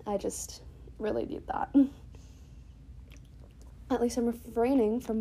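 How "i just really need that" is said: breathy words right after a gulp; just swallowed some water; gulping a drink. Real, not acted. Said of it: "pauses and gulping".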